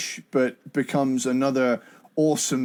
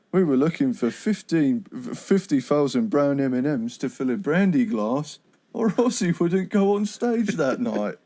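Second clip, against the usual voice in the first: Del Preston impression. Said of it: "your Del Preston impression".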